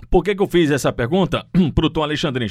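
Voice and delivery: choking mid-sentence, clearing throat; words catch in a choked throat. Real, not acted. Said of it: "me engasguei aqui".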